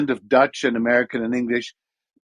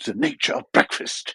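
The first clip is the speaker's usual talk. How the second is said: nature-documentary narrator voice, lower and quieter; 3 semitones lower, 4 dB quieter than usual. Recalling a first US commercial, for IHOP, in David Attenborough nature narration. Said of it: "a kind of David Attenborough nature type of uh".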